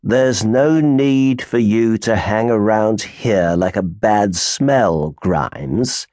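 slow, lofty and condescending; drawn-out supercilious put-down. Acted. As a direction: look down your nose at him. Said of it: "in his most supercilious manner".

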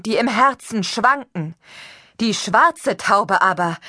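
a stranger prophesying loud and high to the crowd; high preaching voice. Acted. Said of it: "eine hohe Stimme".

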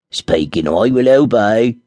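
a magic dwarf reporting for duty. Acted. Dwarf answering the summons of the ring, slow and formal. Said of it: "said the dwarf".

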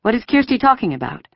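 high-pitched, worried questioning; anxious mother. A narrator's reading. Mother questioning daughter about soldiers, anxious. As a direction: press for answers with a touch of alarm. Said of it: "her mother asked anxiously".

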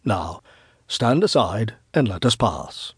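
gentle, measured authority; tender yet authoritative. Acted. Wise man tells old woman to stand aside, tender yet firm. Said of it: "He spoke tenderly, yet with authority".

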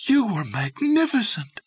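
high-pitched gushing cry; gushing shout. A narrator's reading. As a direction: gush admiringly in a high voice. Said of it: "Dolly Beavers shouted".

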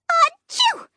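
high, sudden fake sneeze; loud high sneeze. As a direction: blast out a sneeze. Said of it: "I replied".

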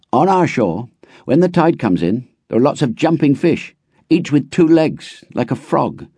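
put-on a boy keen to share; eager boy. A narrator's reading.

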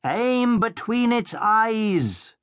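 high, drawn-out commanding shout; shouted order. A narrator's reading. The Baron shouts at Blood from behind Bone. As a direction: command it from cover. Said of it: "the Baron shouted".

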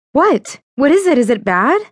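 high, urgent frightened questions; panicked questions. Acted. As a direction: fire them off in rising panic. Panic after Fiona's gasp.

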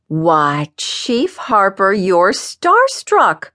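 teasing mock astonishment. Cora needles the chief about meeting a ball player, teasing. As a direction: stretch it out slowly, rising into the tease.

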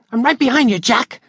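put-on high, keen young boy; eager boy voice. Billy following Jack up the ladder, high boyish voice. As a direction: kid close on his heels.

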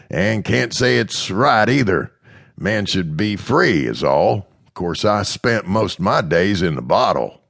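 mild, steady man's dialogue voice; lightly voiced Mister Smith. Mister Smith answering Amanda, lightly voiced and earnest.

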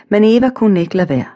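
plain reading voice

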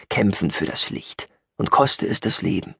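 understated, unimpressed recitation of a slogan; dismissive echo. Acted. Eye-rolling echo of the slogan. (unbeeindruckt, leicht abfällig)

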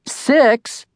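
sudden high-pitched disbelieving yelp; boy blurts out in shock at an early start; shocked cry. A narrator's reading. Shocked cry. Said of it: "I cried".

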